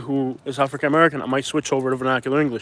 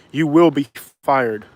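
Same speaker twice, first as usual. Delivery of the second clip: emphatic warning; slower than usual. Real, not acted. Warning of job loss, emphatic.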